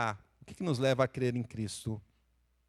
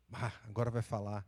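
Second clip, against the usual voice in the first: wary wife; 3 semitones lower, 7 dB quieter than usual. Retold or imitated. Wife expecting a confession.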